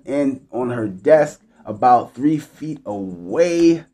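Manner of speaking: measured, clearly phrased read-aloud; story read aloud. A narrator's reading. Host reads a listener's one night stand story, read-aloud voice.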